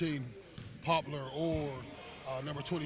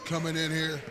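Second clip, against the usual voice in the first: enthusiastic agreement; 7 dB louder than usual. Real, not acted.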